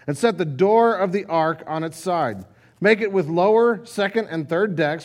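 measured, solemn Bible reading to the congregation; scripture reading. Acted. Preacher reading Genesis to the congregation, solemn and measured.

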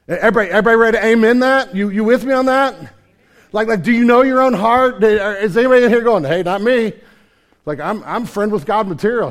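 fiery congregation challenge; full-force preaching. Acted. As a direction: call out to the whole room.

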